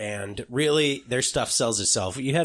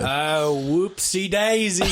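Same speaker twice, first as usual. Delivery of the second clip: accidental Aussie accent; 5 semitones higher, much slower than usual. Real, not acted. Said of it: "We're slipping into the Aussie accent".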